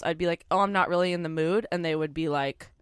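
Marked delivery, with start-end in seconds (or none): 0.5-1.7 apologetic polite decline. Retold or imitated. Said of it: "with anybody else".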